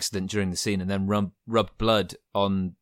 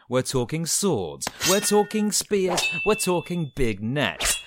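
trailer announcer; slower than usual. Pretend. Hyping a game season like a trailer.

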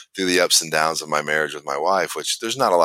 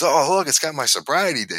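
imitating Trey; 10 semitones higher than usual. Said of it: "And he goes".

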